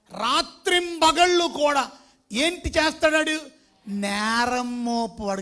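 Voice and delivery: loud, slow, heavy proclamation; thundering at the church about the accuser; preaching at full force. Acted. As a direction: lean hard on each word.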